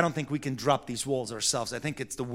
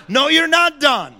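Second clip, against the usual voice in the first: louder, higher, amused scold; laughing rebuke; 11 semitones higher, 10 dB louder than usual. Retold or imitated. Father telling his daughter she isn't done, laughing. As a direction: cut her off with a laugh.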